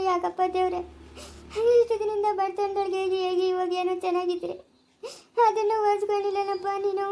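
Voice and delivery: tearful lament; crying. Acted. Mother mourning her son's lost future, crying. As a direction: keep weeping through every word. Mother weeps over injured son.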